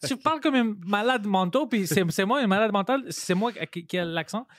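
high-pitched indignant rant, retold; heated re-enacted comeback, easing at the end; retold anger. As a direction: act out being offended in an argument. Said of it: "j'étais vraiment fâché".

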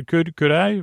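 halting, stumbling over the opening words; deliberate false starts. Shown as a demonstration. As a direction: stammer and restart mid-sentence, as a playful demonstration. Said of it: "you can't have a false start".

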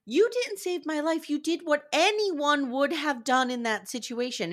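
high-pitched indignant comeback; indignant retort. Retold or imitated. Retelling her retort to the man who claims he saved her, indignant. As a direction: act out her outraged rebuttal.

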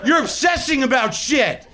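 high-pitched, drawn-out mock tantrum; screaming in rage. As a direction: wail it out slowly, an ineffectual rage. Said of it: "I'm screaming".

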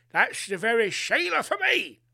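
mock Australian accent, badly faked; terrible Australian accent. Hot-blooded Australian men proposing to her, in a bad Australian accent.

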